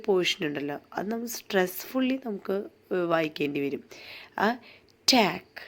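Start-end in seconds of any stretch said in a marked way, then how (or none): 5.1-5.6 ടാക്ക് said firmly with a falling tune; ടാക്ക് punched as the stressed beat; stressed syllable. Shown as a demonstration. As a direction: land hard on ടാക്ക്. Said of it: "ടാക്ക് എന്നുള്ളത് ഒന്ന് stress ചെയ്യുക".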